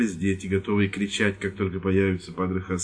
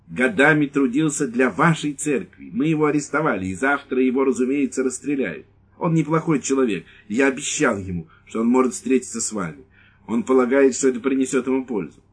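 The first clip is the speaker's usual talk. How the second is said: lieutenant explaining; 4 semitones higher than usual. Acted.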